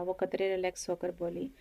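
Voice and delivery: usual speaking voice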